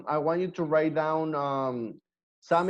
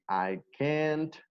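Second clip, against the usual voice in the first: slow, careful "I can't speak English"; slow model sentence; 4 dB quieter, slower than usual. Shown as a demonstration. Teacher modelling an example for students, slow and soft. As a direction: draw out the example sentence slowly. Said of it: "we just say".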